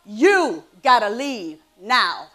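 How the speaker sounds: imitated firm dismissal. Woman retells boyfriend sending her away, firm slow dismissal. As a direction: imitate him ordering you out, each word weighted. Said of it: "And then he says to me".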